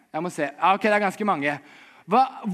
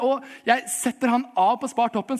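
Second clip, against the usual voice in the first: normal talking voice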